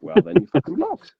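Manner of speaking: high, loud, cheeky retort; defiant outburst. Retold or imitated. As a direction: snap back at the troll. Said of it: "I'm like".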